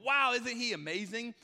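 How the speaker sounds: loud, high gushing wonder; imitating an amazed follower; mock amazement. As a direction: gush like a starstruck fan. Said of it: "They're not walking away going".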